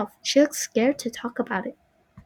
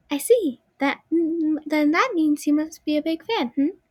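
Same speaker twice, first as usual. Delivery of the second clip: put-on little girl voice; 6 semitones higher than usual. Marionette voiced in story.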